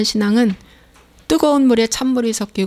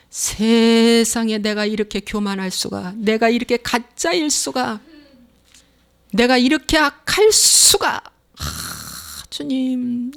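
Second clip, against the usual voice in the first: a touch of remorse; slower than usual. Acted. Believer confessing sin to the Lord, mild fading remorse. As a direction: confess slowly, letting the voice sink away.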